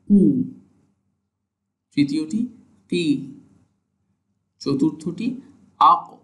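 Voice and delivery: কু, কি, আক each said as a clean Arabic qaf; teacher's pronunciation drill; Arabic letter demo. Shown as a demonstration. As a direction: model the qaf syllables one by one. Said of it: "আমরা দেখি কিভাবে উচ্চারিত হচ্ছে".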